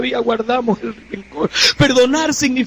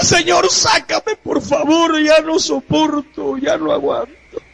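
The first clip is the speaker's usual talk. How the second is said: retold pleading cry; 5 semitones higher, slower than usual. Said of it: "aquella mujer le gritaba".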